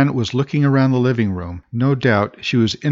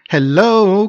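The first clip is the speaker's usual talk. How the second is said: high, louder lilting greeting; chirpy sing-song hello; 10 semitones higher, 7 dB louder than usual. A narrator's reading. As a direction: sing it out from the hall. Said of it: "came a sing-song voice from the hall".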